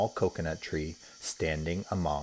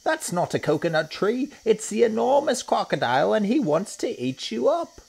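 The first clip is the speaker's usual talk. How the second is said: higher, louder hippo shouting a warning; urgent warning; 5 dB louder than usual. Acted. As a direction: shout to get them away from danger. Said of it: "shouted Humpy Rumpy".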